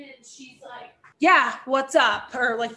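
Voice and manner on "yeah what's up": slow, louder mock-innocent reply; feigned surprise. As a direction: imitate someone acting all surprised. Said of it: "acting all surprised".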